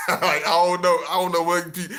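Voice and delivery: words breaking up in real laughter; laughing. Real, not acted. Laughing at his own mock boyfriend voice, words breaking up.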